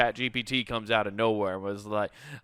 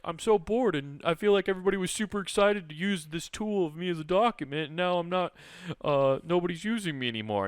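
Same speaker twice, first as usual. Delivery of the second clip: whiny cartoon document; 6 semitones higher than usual. Bored document whines.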